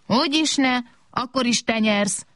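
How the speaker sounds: high-pitched dismissive refusal. A narrator's reading. Small robot refusing another game, dismissive. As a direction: wave the idea away in a high voice. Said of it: "legyintett a kis robot".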